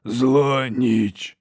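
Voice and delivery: slow rasping monster voice; harsh cracked giant voice. A narrator's reading. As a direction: drag out each word like a simple-minded brute. Giant echoes.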